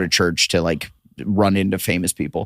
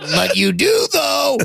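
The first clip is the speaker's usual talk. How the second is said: mock squeal, much higher, laughing; high-pitched retort; slower than usual. Actor retelling his comeback to the show's creator, high laughing squeal.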